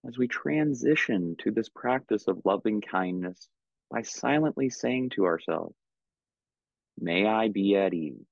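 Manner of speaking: calm, unhurried meditation guidance with long pauses; measured, soothing meditation teacher; guided meditation. Real, not acted. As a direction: guide them gently into stillness, leaving space between phrases.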